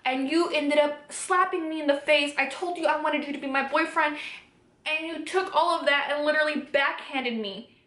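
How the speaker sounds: acted-out upset, no tears; retold emotional distress. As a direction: pour out the grievance as if back in the argument. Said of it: "I was emotionally distressed".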